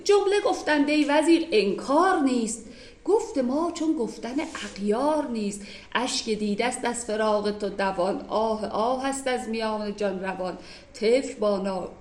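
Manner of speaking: a teacher reading classical Persian poetry; poem recitation. Acted. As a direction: recite the couplets carefully. Reads the Masnavi verses aloud.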